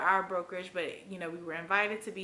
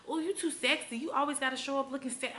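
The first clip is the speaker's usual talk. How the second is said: mocking coworkers; 6 semitones higher than usual. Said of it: "they kept hitting me with".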